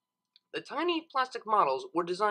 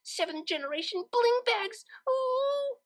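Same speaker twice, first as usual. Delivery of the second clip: high, thrilled cry ending in a higher ooh; rapturous. Acted. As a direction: gasp with total rapture. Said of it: "such was her rapture".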